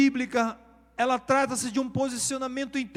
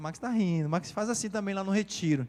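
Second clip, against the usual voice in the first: ordinary talk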